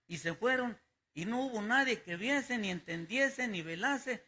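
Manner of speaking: the same verse read again softly and evenly; soft, steady recitation of the text; quiet reread. Shown as a demonstration. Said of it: "Quise yo poner el texto".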